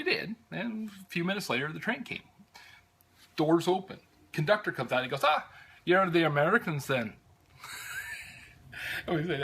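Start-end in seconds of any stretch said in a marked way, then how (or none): 5.2-7.1 higher-pitched imitation of an Irish conductor's brogue. Conductor greeting American tourists on the train, Irish brogue. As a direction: do the friendly Irish conductor in an Irish accent. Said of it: "lovely brogue that I have".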